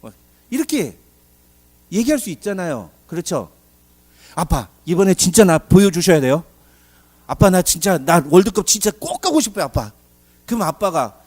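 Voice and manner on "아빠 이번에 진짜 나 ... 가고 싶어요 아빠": put-on pleading child. Child begging father for tickets.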